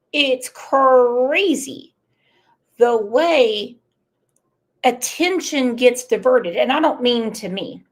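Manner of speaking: holding back tears while talking; choking up. Real, not acted. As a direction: voice tightening with emotion. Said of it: "I'm choking up again".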